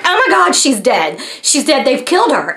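mock panicked phone call; retold panic. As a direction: blurt out dreadful news, lightly acted.

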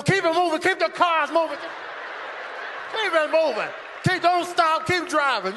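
high, insistent traffic-control yell. Acted. Guard yelling at drivers pulling up to the terminal, yelling. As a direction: bellow orders at arriving drivers. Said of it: "They yelling at you".

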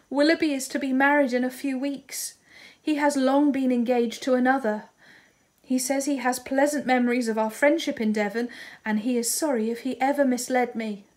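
high, loud, grieving voice; grief-stricken reading. Acted. Marianne reads Willoughby's letter to her sister in high grief. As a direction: read out the blow through grief.

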